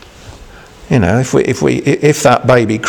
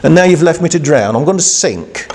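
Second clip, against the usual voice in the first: high, fast whining protest; a hint of a panicked, indignant Peter; mock complaint; 6 semitones higher than usual. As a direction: complain like a man left to drown. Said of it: "He didn't say".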